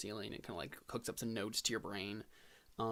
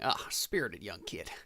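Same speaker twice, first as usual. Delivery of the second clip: chuckling aside; 2 semitones lower, slower than usual. Acted. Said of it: "chuckles to himself".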